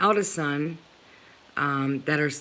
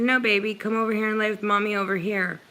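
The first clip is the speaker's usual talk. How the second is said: coaxing mother; 3 semitones higher, much faster than usual. Retold or imitated. Mother retells calling her daughter to the couch, coaxing. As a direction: gently imitate coaxing a child over.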